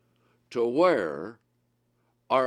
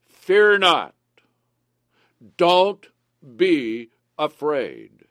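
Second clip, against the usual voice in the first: commanding shout; 7 dB louder, much slower than usual. Acted. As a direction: proclaim it like Moses to the crowd. Preacher voicing Moses' command.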